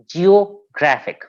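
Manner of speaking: "geographic" slow, split as geo, graphic; syllable by syllable. Shown as a demonstration. Teacher giving a penultimate stress example, slowly split into syllables. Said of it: "the stress is on the penultimate syllable".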